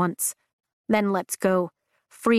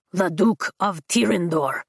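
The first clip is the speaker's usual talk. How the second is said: loud announcement. A narrator's reading. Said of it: "Blue Sash announces loudly".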